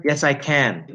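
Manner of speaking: "can" with a clear A as in hat; strong A in CAN. Shown as a demonstration. Teacher demonstrating the first one, strong A. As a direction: land fully on the final "can". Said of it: "a strong A sound".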